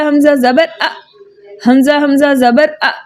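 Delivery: अ cut off with a sudden stop; hamza stop demo. Shown as a demonstration. Teacher showing students the hamza stop. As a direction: clip the अ short. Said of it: "लेकिन जब हम पढ़े".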